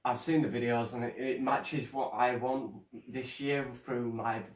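nervous stutter; stumbling stuttered words. Real, not acted. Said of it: "I'm sorry if I'm stuttering".

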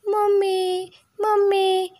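high, loud little-chick call; chick calling mummy. A narrator's reading. Running chick calls out for mother.

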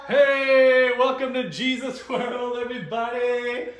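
high, loud host greeting; excited show opening. Real, not acted. Host opens show, calling out greeting.

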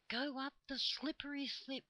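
high, airy voice of talking leaves; leafy voices. A narrator's reading. Trees advise the children, in high leafy voices. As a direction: speak as rustling foliage, pitched high. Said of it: "in their leafy voices".

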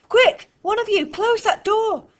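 high, loud, straining command; urgent shout. A narrator's reading. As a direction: bark the order mid-struggle. Fliss shouting while wrestling.

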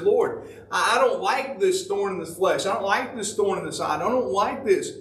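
a lightly voiced Paul grumbling; complaining Paul. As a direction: whine to God about the thorn.

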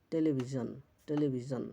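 টেলিভিশন with a voiced jon at the end; "-jon" ending demo. Shown as a demonstration. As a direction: model টেলিভিশন as te-le-bhi-jon. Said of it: "এর উচ্চারণ ঝন বা জন হয়".

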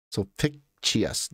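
slow "Sulpicius" with a ch-like sound after PICK; Italian-style pronunciation. Shown as a demonstration. Trying out the name aloud, slow Italian-style "Sulpicius" as sol-PICK-chee-us. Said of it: "No, you're thinking Italian".

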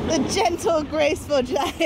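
nature documentary. Pretend. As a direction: narrate it like a wildlife film. Mock wildlife documentary narration.

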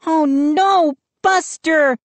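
put-on high, alarmed girl's cry; screamed alarm. A narrator's reading. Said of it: "she pointed to the McCall's garden and screamed".

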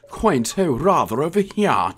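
a hammed-up British "rather over here"; posh British impression. Describing Sherlock's accent to viewers, mock British. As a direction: play a quaint Englishman, lightly. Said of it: "Sherlock's accent".

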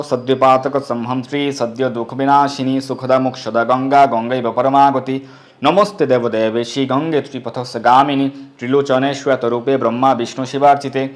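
measured, even-toned Sanskrit verse; mantra recitation. Acted. Devotee saluting the goddess Ganga, measured chant. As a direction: recite like a prayer, vowels held.

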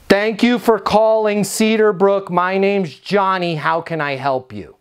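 scripted salesy phone greeting. Shown as a demonstration. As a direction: recite a mildly salesy receptionist's greeting, trailing down at the end. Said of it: "It sounds salesy".

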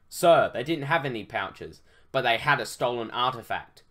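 lightly voiced military report; military soldier. Soldier reporting on the captives' pouches, military. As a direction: report formally to a superior.

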